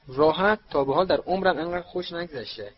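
high, incredulous echo, then protest; amazed and exuberant; astonished. A narrator's reading. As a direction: repeat the word in amazement, pitch jumping up. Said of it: "تعجب زده گفت".

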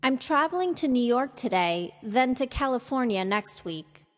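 lifted on the focus word, falling to a close on "next week"; falling statement intonation. Shown as a demonstration. Teacher modelling for learners to repeat, falling intonation. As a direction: complete the statement with a fall through "next week". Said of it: "fall at or after the focus word".

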